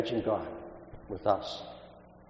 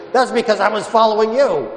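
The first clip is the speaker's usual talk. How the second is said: policeman's answer; 9 semitones higher, 6 dB louder than usual. Retold or imitated. Officer answers mother.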